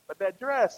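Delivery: "dress" singled out after "But that"; stress on DRESS. Shown as a demonstration. Husband telling wife the truth, emphasis on "dress". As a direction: put the weight on "dress". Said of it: "So you put the emphasis on the dress".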